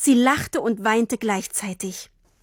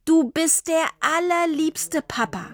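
adoring; 7 semitones higher than usual. Acted. Girl hugs father lovingly.

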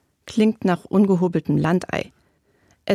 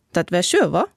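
Siegerland dialect. Acted. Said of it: "Was hat sie gesagt?".

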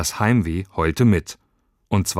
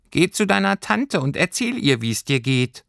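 hohe Figurenstimme, am Ende tiefer; ratgebendes Pelztierchen; 10 semitones higher than usual. A narrator's reading. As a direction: rate wie ein kleines Fabelwesen. Tierchen rät Lilli. (hohes, bestimmtes Stimmchen)

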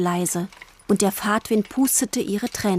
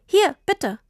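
put-on eager child; 10 semitones higher than usual. A narrator's reading. Tini hands over the bike.

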